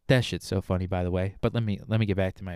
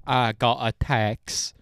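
put-on slow, drawn-out Essex accent; much slower than usual. Mocking how Love Island Brits talk, slow Essex accent. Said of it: "they talk like".

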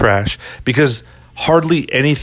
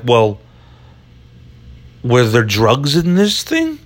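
Italian Chicago cop. Pretend. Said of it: "worst cop impression ever".

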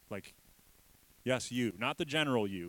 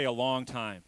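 call and response; 6 dB louder than usual. Shown as a demonstration. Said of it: "Everybody say".

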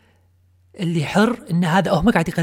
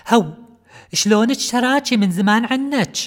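imitating; 4 semitones higher than usual. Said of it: "أسمع وايد ناس يقولونها".

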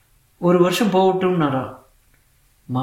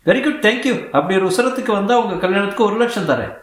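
higher, lightly flirtatious boss voice; playful lady boss; 4 semitones higher than usual. Acted. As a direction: tease him gently from above. Telugu lady boss speaks.

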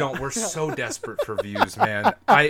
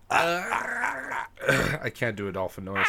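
dolphin impression; 4 dB quieter, much slower than usual. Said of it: "That was my impression".

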